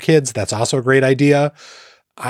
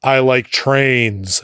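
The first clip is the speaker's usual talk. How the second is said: put-on kids' catchphrase; much slower than usual. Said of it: "they just would go over and over".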